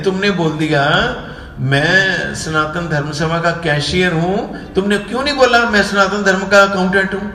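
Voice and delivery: retold grievance that speeds up as it rises; angry complaint. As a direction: mimic an offended man's scolding. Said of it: "मुझे वो भी गुस्सा हो गए".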